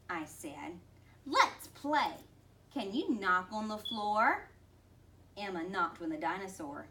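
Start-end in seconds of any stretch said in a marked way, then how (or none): 1.3-4.5 bright coaxing invitation. Acted. Coaxing child to play.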